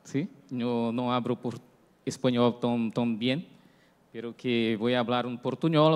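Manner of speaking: Spanish with a Brazilian Portuguese accent; Portuguese-flavoured Spanish, words mixed; portuñol. Real, not acted. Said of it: "ya pido perdón por mi portuñol".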